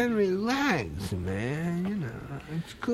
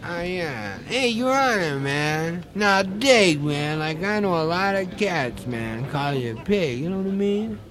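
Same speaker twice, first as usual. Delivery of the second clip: stoned hippie voice; 9 semitones lower than usual. Acted.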